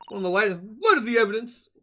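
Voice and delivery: hammed-up Australian detective voice; Australian accent. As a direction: try out a rough Australian accent. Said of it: "Australian Sholmes".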